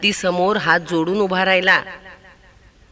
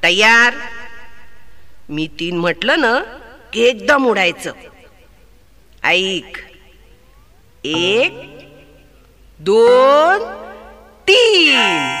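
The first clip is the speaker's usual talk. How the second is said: excited countdown; 3 dB louder, slower than usual. Acted. Sparrow counts down to fly.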